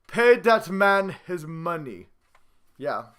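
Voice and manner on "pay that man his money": slow, lightly voiced movie line; a half-hearted go at the Rounders line, drawn out slowly; bad Rounders impression. Vlogger hams up a movie quote for fans, slow mock impression. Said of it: "I'm gonna do my real bad, uh, real bad impression of Rounders".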